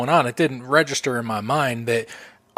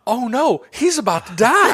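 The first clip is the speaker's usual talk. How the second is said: much higher, louder dawning dread, laughing; sudden realization; 11 semitones higher, 3 dB louder than usual. Retold or imitated. Imitating her realizing mid-movie, high and laughing. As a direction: it just clicked, oh no. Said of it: "and then it clicked".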